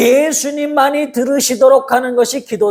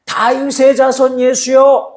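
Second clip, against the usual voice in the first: crying out; 5 semitones higher than usual. Retold or imitated. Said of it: "이렇게 불렀습니다".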